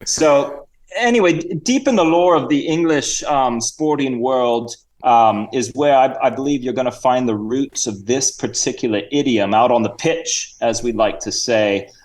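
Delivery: loose mock Cockney-Australian accent; halting lecture in a put-on Cockney-Aussie accent; Sir Reginald. Guest explains cricket lore in fake Cockney-Australian accent. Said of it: "bit of a Cockney accent and Australian".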